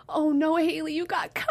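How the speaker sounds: lightly voiced mother, concerned; mom on phone. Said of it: "and she's like".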